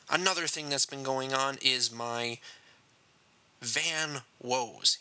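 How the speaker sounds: a long dramatic pause after "is my" before "van woes". Shown as a demonstration. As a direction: hang on "is my", then drop "van woes". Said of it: "Yes, dramatic pause there".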